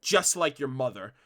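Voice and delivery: mildly voiced vindictive turn; a touch of spiteful bite. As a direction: let the words sour with spite.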